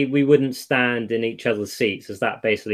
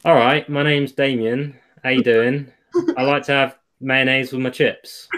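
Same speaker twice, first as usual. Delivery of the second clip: measured Surrey accent for copying. Shown as a demonstration. Showing a friend how to sound like me in a Surrey accent. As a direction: model a Surrey accent for someone. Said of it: "try do a Surrey accent".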